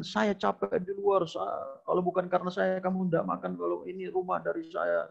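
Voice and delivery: husband boasting that he feeds the family; boastful husband. Acted. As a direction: show off to the wife, lightly acted. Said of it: "membanggakan dirinya".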